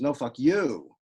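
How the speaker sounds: two light, then "you" stressed; "no, fuck" light, punch "you"; anapest stress. Shown as a demonstration. Poet showing the anapest rejoinder, stress at the end. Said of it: "or an anapest".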